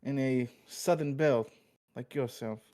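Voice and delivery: laying on the Italian mobster charm; smooth-talking wise guy pitching a date; Italian mobster accent. Acted. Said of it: "Your accent's just so good".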